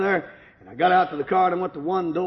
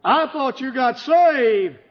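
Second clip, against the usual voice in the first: tearful; 5 semitones higher, slower than usual. Retold or imitated. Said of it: "My wife began crying and she said".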